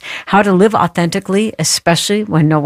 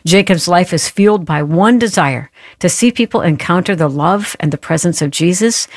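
normal talking voice

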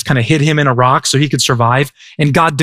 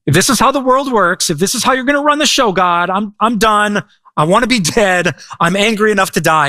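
higher, exasperated fed-up rant; angry Jonah; 6 semitones higher than usual. Retold or imitated. Jonah telling God he wants to die, fed up. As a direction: voice Jonah done with God, pitch raised. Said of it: "He's apparently so ticked".

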